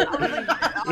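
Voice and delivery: loud, stammering through laughs; startled laughter. Real, not acted. Teammate recounting the scare, loud startled laughter. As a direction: stumble over words while cracking up.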